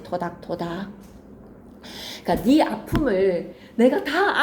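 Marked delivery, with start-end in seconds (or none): 0.0-0.9 softer pat-pat. Shown as a demonstration. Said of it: "이렇게 하나 적어놓지".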